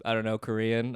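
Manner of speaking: low-key, grudging answer; pissed off. Retold or imitated. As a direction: answer reluctantly, mildly annoyed. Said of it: "he was, like, pissed".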